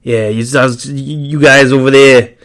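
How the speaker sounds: lightly voiced raspy Eddie with his accent, a bit slow; Eddie impression. Host imitating his friend Eddie greeting him, light raspy impression. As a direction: greet Mark like a friendly customizer, drawn out a little. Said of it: "my impression of Eddie".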